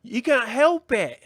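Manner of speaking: mock Kiwi accent, high, loud and drawn out; imitated Kiwi girl. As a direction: stretch it out in a grating fake Kiwi accent. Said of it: "when she was like".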